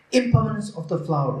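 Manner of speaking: impermanence pitched high, falling away to flower; stress on impermanence. Shown as a demonstration. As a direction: lift impermanence clearly above the rest. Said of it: "Emphasis on the impermanence".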